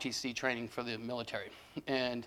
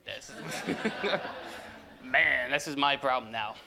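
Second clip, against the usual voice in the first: laughing; much slower than usual. Real, not acted. Caught out by his son.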